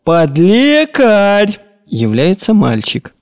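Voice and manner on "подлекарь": long, slow drawn-out call, pitched high. Acted. Old master calling out for his servant boy, drawn-out call. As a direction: holler the name across the house. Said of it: "и кричит".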